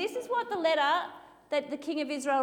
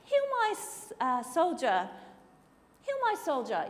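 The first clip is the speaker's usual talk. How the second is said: high, panicky wail with nervous laughs; a king in a flap, voice jumping way up; freaking out; 8 semitones higher, 3 dB louder than usual. Acted. King of Israel panicking over the letter, high frantic voice. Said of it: "So he's freaking out".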